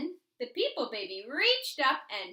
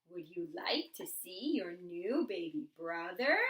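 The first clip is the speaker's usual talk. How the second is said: lightly voiced parents; 6 semitones lower than usual. A narrator's reading. Parents offering the new baby.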